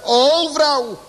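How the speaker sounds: high, slow and solemn; slow solemn praise of Jesus; tender voice of Jesus. Acted. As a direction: let Jesus praise her slowly. Voicing Jesus praising woman.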